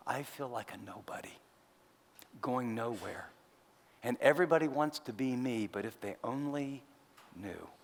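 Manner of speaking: whispered, the secret of a rich man who feels empty; hushed confession. Retold or imitated. Rich man whispering his secret to the pastor. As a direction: let it slip out in a whisper, like a confidence. Wealthy person confiding privately.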